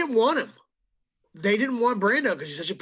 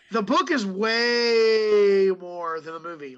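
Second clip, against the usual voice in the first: emphatic shout; 5 dB louder, much slower than usual. Real, not acted. Excited emphatic claim.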